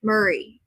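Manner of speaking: Murray said MUR-ee; Murray with the stress up front; trying a pronunciation. Shown as a demonstration. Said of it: "I don't know".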